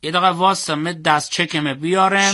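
deliberate repeat. Acted. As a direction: repeat it slowly for the listener. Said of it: "یه بار دیگه بگو".

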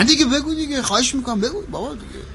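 high-pitched begging to be told; eager pleading. Acted. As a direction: coax him, voice lifted high. Begging him to tell.

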